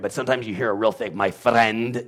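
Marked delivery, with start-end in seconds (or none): 1.2-2.0 FRIEND with a hard rolled R; strong Spanish R. Retold or imitated. Imitating a Spanish speaker's English, strong rolled R. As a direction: hit the R in friend with a roll. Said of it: "You can really hear that R".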